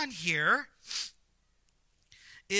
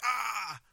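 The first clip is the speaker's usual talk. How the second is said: brief mock cry of exasperation; acted groan of annoyance; frustrated cry; 3 semitones higher than usual. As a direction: let out a half-hearted frustrated "ah". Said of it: "and you're like".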